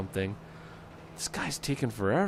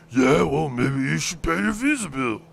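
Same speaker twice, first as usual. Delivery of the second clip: louder, a cheeky put-on voice; lipping off; 5 semitones higher, 6 dB louder than usual. Prank guy sasses a Visa caller in a mock voice. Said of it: "lipping off at the dude".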